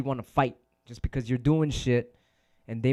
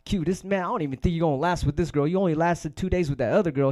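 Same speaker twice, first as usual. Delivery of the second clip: teasing hater; 5 semitones higher, 4 dB louder than usual. Retold or imitated. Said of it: "And it was like".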